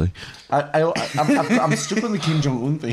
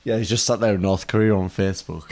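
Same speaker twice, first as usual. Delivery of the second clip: laughing; 4 semitones lower than usual. Real, not acted. Laughing at the Kim Jong-un answer.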